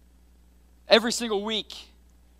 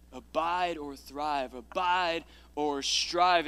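slow, quiet title trial; 4 semitones lower, 4 dB quieter, much slower than usual. Shown as a demonstration. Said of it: "trying title options".

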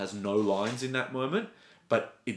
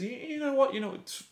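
sudden high emotional burst, half-acted; imitating a hurt teen lashing out; retold outburst. Will's outburst retold from episode.

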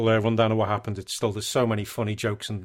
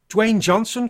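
high, louder astonished cry; surprised cry; 10 semitones higher, 6 dB louder, slower than usual. Retold or imitated. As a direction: gasp out the name in shock. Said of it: "cries Wichita".

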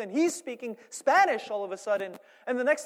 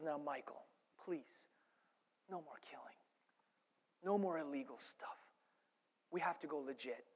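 low, hushed plea with pauses; quiet pleading wife; 5 semitones lower, 13 dB quieter than usual. Retold or imitated. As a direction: softly imitate a wife pleading with her husband. Voicing the pleading wife in film.

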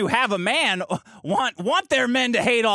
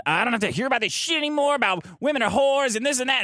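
quick, higher-pitched mock rant; imitated shouting; 5 semitones higher, faster than usual. Woman driver fed up with the interview, mock shouting. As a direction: rattle off her shouted complaint. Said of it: "she's shouting".

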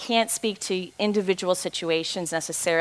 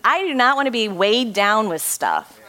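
higher, louder, laughing at herself; laughing self-talk; 6 semitones higher, 4 dB louder than usual. Retold or imitated. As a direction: tell yourself off with a laugh. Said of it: "I'm like".

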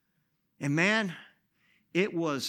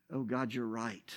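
softer and lower, conceding; quiet admission; 5 semitones lower, 5 dB quieter than usual. Retold or imitated. Pastor conceding to God, soft and low. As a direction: give in quietly.

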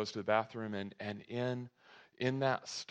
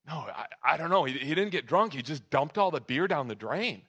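bewildered mom; 4 semitones higher, 5 dB louder than usual. Acted. Mom's bewildered reply acted out.

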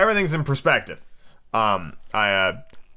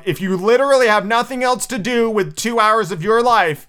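grudging verdict; 9 semitones higher, 5 dB louder than usual. Pretend. Mock seal-of-approval verdict.

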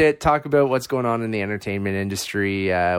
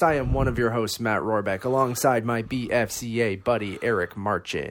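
thin phone-mic recording; recorded on an iPhone mic; 3 dB quieter than usual. Real, not acted. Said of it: "sorry about the mic quality again".

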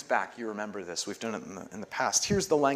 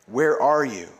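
liturgical call; 4 dB louder, slower than usual. Acted. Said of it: "And we all say".

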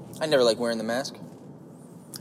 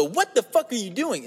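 inner voice; 9 semitones higher than usual. Retold or imitated. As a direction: catch yourself mid-thought. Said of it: "that voice".

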